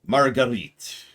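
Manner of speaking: put-on theatrical suitor in a muddled, not-quite-Irish accent; unplaceable mock accent. King wooing his wife-to-be, hammy muddled accent. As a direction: declaim love grandly in an unidentifiable mock accent. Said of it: "I do not know what this accent is".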